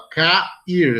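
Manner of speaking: "cair" split into ca-ir; vowels separated. Shown as a demonstration. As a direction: break "cair" between a and i, both vowels distinct. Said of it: "duas vogais separadas". ("cair" com as vogais separadas, ca-ir)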